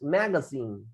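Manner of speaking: "magazine" said carefully as ma-ga-SIN; pronunciation model. Shown as a demonstration. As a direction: model "magazine" clearly for learners. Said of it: "nos equivocamos en la pronunciación".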